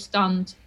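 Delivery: stand, close ah; short close a. Shown as a demonstration. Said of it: "it's a bit close".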